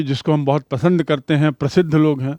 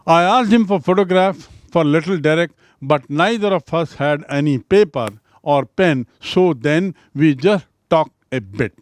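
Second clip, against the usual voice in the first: slow, careful reading of the English lines; measured classroom reading; slow text reading; much slower than usual. Acted. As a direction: read each word out for learners. Rereads English passage slowly.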